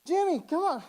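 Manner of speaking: a father frantic at losing his son, hammed-up shout; hammed-up excited dad. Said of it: "And he's".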